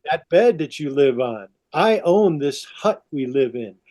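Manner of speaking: slow, deliberate assertion with stretched words; measured, possessive retold speech; acted power play. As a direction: play a man laying down what he owns. Adam asserts power over Eve.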